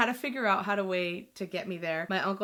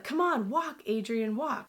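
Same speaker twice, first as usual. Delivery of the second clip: higher-pitched mock command; insistent urging; 4 semitones higher, slower than usual. Mom walking her struggling daughter along, insistent urging. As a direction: imitate a mom prodding each step.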